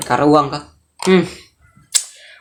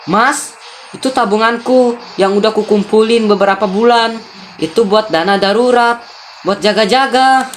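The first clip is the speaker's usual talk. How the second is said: higher-pitched, lightly acted distressed wife; pleading wife; 6 semitones higher than usual. Wife explains her lost savings to husband, pleading. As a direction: plead your case to him.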